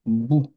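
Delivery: a short, clipped vowel in "bou"; one beat "bou". Shown as a demonstration. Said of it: "ça donnera ici".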